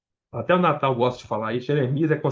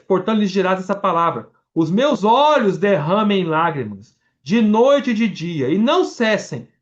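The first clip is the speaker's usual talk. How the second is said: preacher reads the lament of Jeremias, raised and mournful; impassioned scripture reading; 4 semitones higher than usual. Acted. Preacher reading Jeremias to the church, impassioned and raised.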